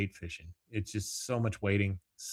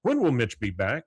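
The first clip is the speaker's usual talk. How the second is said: Hank Hill; 4 dB louder than usual. Retold or imitated. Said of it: "he's like".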